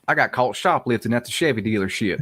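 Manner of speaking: front-of-the-tongue Southern accent. Shown as a demonstration. Friend demonstrating flavors of Southern, Southern accent. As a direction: put on a quick Southern accent. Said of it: "that's all front of the tongue".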